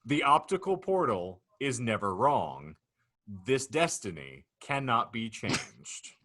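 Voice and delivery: deliberate, mock-grave narrator hitting key phrases hard; dramatic scenario reading. Real, not acted. Host unfolds the Canadian football future to laughing guests, dramatic narrator. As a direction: announce each absurd detail with ceremony. Reads out the hypothetical.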